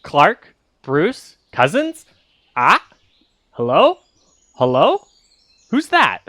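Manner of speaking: a hint of a parrot-like mimic, rising calls; parroting creature. GM voicing the monster calling the heroes, mildly parrot-like. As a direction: call out the names like a parrot. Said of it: "and it goes".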